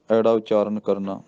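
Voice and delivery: ordinary talk, nothing marked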